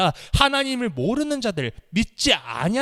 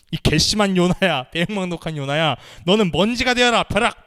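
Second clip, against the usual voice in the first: mock wrath; 4 dB louder than usual. Imagined angry God smiting Jonah.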